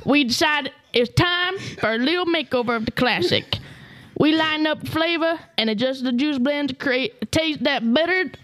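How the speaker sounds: put-on hick Utah accent. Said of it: "best hick Utah".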